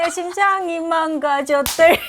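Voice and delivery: put-on Gyeongsang accent. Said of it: "경상도 사람이".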